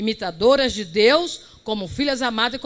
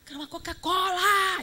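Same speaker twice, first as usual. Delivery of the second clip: put-on shout, higher pitched; 8 semitones higher, 7 dB quieter than usual. Retelling ordering a drink beside a noisy church: imitating her own shout. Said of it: "Eu gritando".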